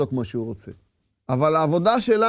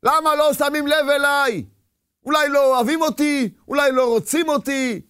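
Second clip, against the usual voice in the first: indignant inner protest; 6 semitones higher than usual. Acted. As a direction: protest it high, stretching the questions out. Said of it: "שאדם מתקומם". (מחאה מתקוממת, בקול גבוה ונמשך)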